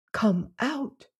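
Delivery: soft, high, lisped near-whisper; lisping whisper. Acted. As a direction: hush it with a lisp, frightened. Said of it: "her voice lisped into a whisper".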